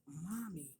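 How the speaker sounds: put-on slow, emphatic child's demand; measured, weighty retold question; imitated authority. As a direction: mimic a small daughter asking with authority. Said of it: "she said it with such authority".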